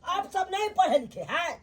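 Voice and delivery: irritated scolding that drops off at the end. Acted. Guest scolds his hosts over the chair, irritated. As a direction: tick them off like a cross guest. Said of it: "मेहमान किया खिसियाए छथिन".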